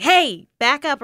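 re-enacted warning shout; retold yell. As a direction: call out to back a dog off. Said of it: "still yelling at this dog".

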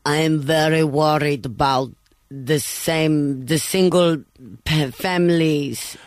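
mock Russian accent, slow; a lightly hammed-up Russian politician. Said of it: "in a Russian accent for me".

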